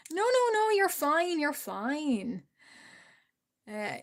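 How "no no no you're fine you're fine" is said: high-pitched reassurance, settling downward; quick reassurance. Real, not acted. Streamer telling a viewer not to worry, reassuring. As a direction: wave away the worry, pitched up.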